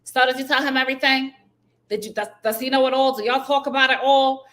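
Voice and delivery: pry like a messy sister; mocking the sister. Mocking the sister prying in front of the boyfriend. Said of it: "you say to your sister".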